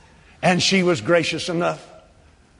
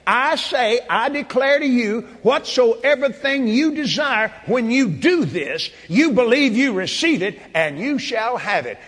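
Jesus' words proclaimed; 5 semitones higher than usual. Retold or imitated. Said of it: "He said".

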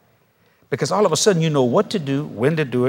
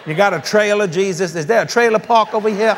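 mocking laughing questions; 4 semitones higher than usual. Mock questions to Jesus.

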